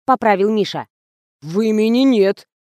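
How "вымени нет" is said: slow, puzzled statement; bewildered. A narrator's reading. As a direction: say it lost and confused. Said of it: "растерянно". (растерянно)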